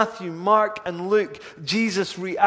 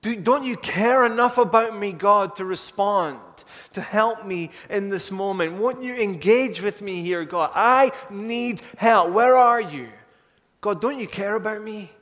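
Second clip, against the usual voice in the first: loud, pleading outcry, louder still on where are you; desperate cry to God; 2 semitones higher, 5 dB louder than usual. Acted. A believer pleading with a silent God, desperate loud cry. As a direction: call out to God as if he can't hear you. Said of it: "that we almost feel that".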